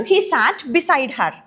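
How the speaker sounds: each word of "He sat beside her." stretched; teacher repeats the sentence slowly for the class; very slow example. Shown as a demonstration. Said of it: "అతను ఆమె పక్కన".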